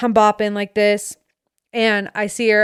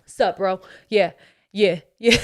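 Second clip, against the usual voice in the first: bro voice. Pretend. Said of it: "like a bro".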